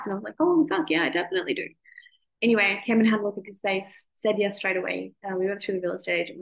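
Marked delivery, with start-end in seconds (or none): 0.4-1.7 excited. Retold or imitated. Jumping at the rent price.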